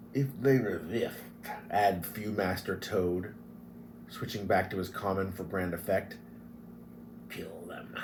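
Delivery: soft, menacing order; grand hobgoblin. Acted. Toad ordering the guards, lightly voiced menace. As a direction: deliver it for grand effect.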